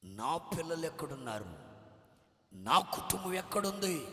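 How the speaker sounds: panicked shout. Retold or imitated. Father panicking about his children and family, desperate shout.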